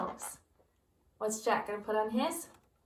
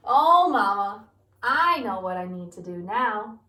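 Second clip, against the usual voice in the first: eager Jack; 8 dB louder than usual. Acted. Jack answers his mother eagerly.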